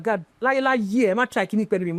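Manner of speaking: firm, emphatic refusal; demonstrating the confrontational way to say it; blunt delivery. Shown as a demonstration. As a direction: push back bluntly, pitch slightly up. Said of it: "It is how you say it".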